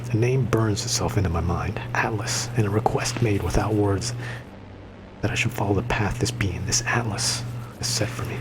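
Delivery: hushed unvoiced lore reading; whispered narration. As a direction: whisper the vision like a secret. Reads game lore aloud.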